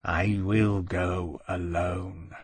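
very slow, soft and miserable; wretched whisper-soft resolve; said wretchedly. A narrator's reading. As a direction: barely breathe it out in despair. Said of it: "said wretchedly".

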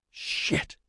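low-volume, voiceless grunt; grunted curse. A narrator's reading. Man finds the boy collapsed in snow, grunts a curse. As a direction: curse under the breath, barely voiced. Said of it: "Ozzy grunted".

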